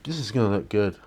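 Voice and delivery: talking with a paintbrush between teeth; words round a brush held in mouth. Real, not acted. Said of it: "Talking with a brush in my mouth right now".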